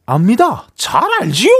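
bright forward comedian impression; Jo Junho impression. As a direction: voice placed forward in the mouth. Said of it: "아까 그 성대모사 하신 거 한 번만".

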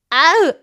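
short yelp from a stiff neck; pained groan. Shown as a demonstration. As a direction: groan as the neck won't turn. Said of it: "안 돌아가요".

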